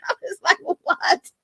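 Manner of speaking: high, breathless laughing "What?"; laughing disbelief. Real, not acted. Host reacting to the cussing rant, laughing. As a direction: squeak it out through laughter.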